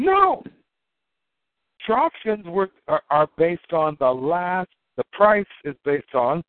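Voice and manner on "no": emphatic no. Real, not acted. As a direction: slam the door on the idea. Answers own rhetorical question again.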